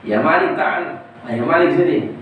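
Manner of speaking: lordly summons to the angel; commanding call. Acted. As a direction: call the angel over with authority. God summons angel Malik.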